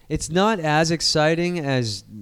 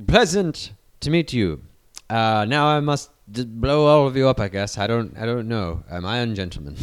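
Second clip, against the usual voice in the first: put-on English accent; 4 semitones lower than usual. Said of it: "It could be an English guy".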